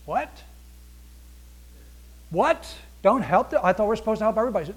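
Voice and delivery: a believer who can't believe what God just said; shocked disbelief. Acted.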